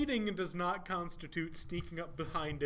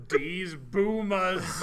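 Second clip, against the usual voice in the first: laughing; 4 semitones higher, 8 dB louder, much slower than usual. Real, not acted. Mocking repeat of phrase.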